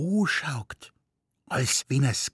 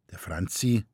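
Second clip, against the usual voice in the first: ordinary delivery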